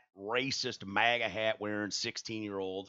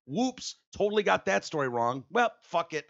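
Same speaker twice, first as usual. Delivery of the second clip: higher flippant mocking voice; mock careless media; 9 semitones higher than usual. Mocking media that got the story wrong. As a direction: shrug it off like a careless outlet. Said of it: "And it's like".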